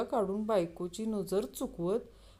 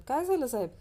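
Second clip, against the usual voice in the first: higher-pitched startled question; frightened; 6 semitones higher, faster than usual. Acted. Taxi driver asks the passenger who slapped him, mildly frightened. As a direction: ask it with a touch of alarm. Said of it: "taxi driver घाबरत".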